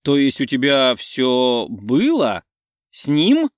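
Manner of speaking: stunned friend questioning; shocked. Acted. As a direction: gasp it out.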